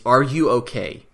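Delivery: slow "Are YOU okay", weight on "you"; stress on YOU. Retold or imitated. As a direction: lean on "you", taking it slowly. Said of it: "the first thing he asks her is".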